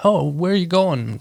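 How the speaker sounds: mock-friendly, lifted question to someone lost; friendly Canadian. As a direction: imitate a helpful Canadian checking on a stranger. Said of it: "and they're so friendly".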